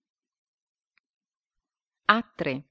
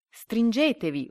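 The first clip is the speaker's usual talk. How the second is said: higher, louder, drawn-out call; yelled order; 6 semitones higher, 5 dB louder than usual. A narrator's reading. Lead duck to the whole flock, yelled order. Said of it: "urlò l'anatra capo a tutto lo stormo".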